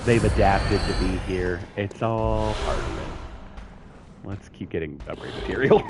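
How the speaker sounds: upbeat real estate agent pitch; realtor voice. Acted. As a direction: sell the neighborhood like a realtor. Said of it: "the realtor voice".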